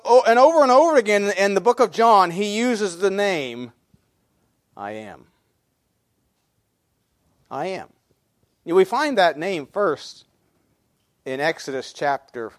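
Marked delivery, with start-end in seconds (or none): 4.8-7.9 low, reverent near-murmur; hushed, solemn. Acted. Preacher reveals the name used in John, hushed and solemn. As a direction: drop low and very soft on the name.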